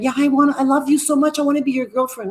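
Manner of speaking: mock-gush like a smitten girlfriend. Mock Libra flip-flopping girlfriend.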